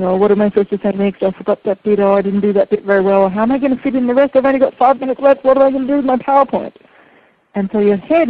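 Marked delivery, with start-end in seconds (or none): 0.0-6.7 panicked inner voice. Retold or imitated. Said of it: "their head is in judging mode".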